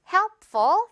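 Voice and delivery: emphatic drill. Shown as a demonstration. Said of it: "P와 F 발음도 주의하면서".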